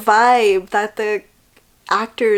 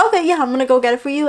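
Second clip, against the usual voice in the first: quick willing reply; 5 semitones higher, much faster than usual. Retold or imitated. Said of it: "It was like".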